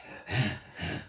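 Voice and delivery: heavy acted-out sigh; mock labored breath. Telling of a run in the fog, mock labored breathing. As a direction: puff out a struggling breath. Acting out struggling, dying in fog.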